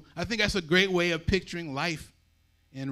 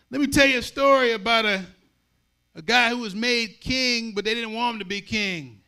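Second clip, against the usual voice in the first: loud storyteller; 6 semitones higher, 8 dB louder than usual. Acted. Storyteller calling out to crowd.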